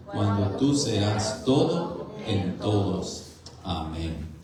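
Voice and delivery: measured, projected group recitation; formal recited prayer, phrase by phrase; catechism recitation. Acted. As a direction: read it out firmly for a congregation to join in. Reads catechism answer aloud with congregation.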